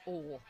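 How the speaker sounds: "Oh" for oil, with no "oy" glide; imitating dropped sound. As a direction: say oil as a flat "Oh", imitating a Southerner. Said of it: "I have trouble with Pat sometimes because he doesn't, he says".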